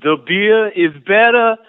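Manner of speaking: lightly put-on New Jersey accent, laid back; a hint of New Jersey tough guy. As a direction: play a cocky Jersey guy bragging about the shore. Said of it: "what does a pure New Jersey dialect sound like".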